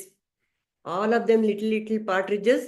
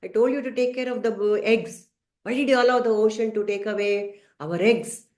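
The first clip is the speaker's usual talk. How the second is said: furious scolding. Acted. Mother bird scolds father for losing the eggs, mildly angry. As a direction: demand answers from the careless father. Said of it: "she is furious".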